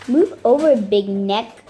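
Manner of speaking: loud rough goblin shout. Acted. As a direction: bellow it at the llama. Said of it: "shouted a second goblin".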